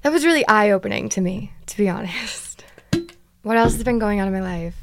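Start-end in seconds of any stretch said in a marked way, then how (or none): 1.7-2.7 breathy whispered aside; a quick hushed to be honest. Real, not acted. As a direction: drop to a confiding whisper. Whispered aside after story.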